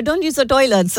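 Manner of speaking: lightly imitated Spanish accent; blunt cleaner with a hint of Spanish accent; imitating Spanish cleaner. Cleaner warns host off the toilets, lightly imitated Spanish accent. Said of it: "this is the way she said it".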